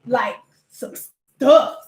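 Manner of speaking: slow, savoring "ooh"; slowly savoring how hard the name sounds; impressed drawl. Retold or imitated. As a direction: linger on it, impressed. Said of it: "you just be feeling like".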